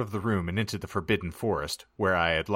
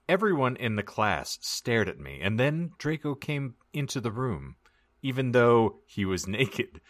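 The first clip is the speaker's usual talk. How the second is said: story narration; 3 semitones higher than usual. Acted. Reads the fan fiction aloud.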